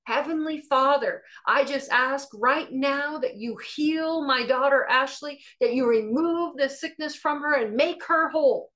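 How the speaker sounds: a steady, sure prayer of faith; confident prayer. Retold or imitated. Mother praying over her sick daughter, calm and sure. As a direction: pray as if it is already done. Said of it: "with the utmost confidence and faith".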